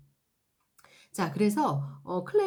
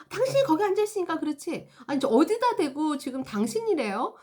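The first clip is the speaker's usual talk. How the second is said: raised, indignant quarrel voices; mock quarrel; 5 semitones higher, 3 dB louder than usual. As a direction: snap back at each other. Customer and employee quarrel. (손님과 직원이 말다툼하는, 언성 높인 말투)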